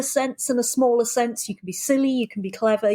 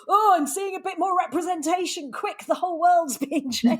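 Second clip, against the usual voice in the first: mocking backlash; 7 semitones higher than usual. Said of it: "some people are going".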